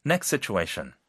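normal talking voice

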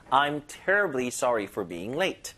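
slow, "terribly" pushed hard; stress on terribly. Shown as a demonstration. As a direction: punch "terribly", then ease off. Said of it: "요거 힘을 여기다 주시고".

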